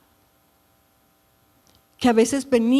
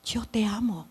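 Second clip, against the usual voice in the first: tender whisper; 4 dB quieter than usual. Retold or imitated. The Lord speaking tenderly, quoted.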